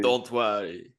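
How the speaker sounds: mock French accent. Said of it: "also do a deep voice".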